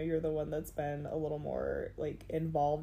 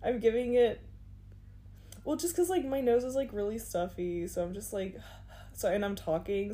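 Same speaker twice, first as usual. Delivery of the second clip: out of breath; 2 semitones higher than usual. Real, not acted. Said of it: "weird breathing".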